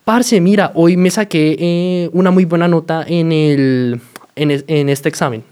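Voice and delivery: telling a friend about a good exam, excited; happy. Shown as a demonstration. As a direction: brag about the good grade. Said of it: "depende de la tonalidad y de pronto el ánimo".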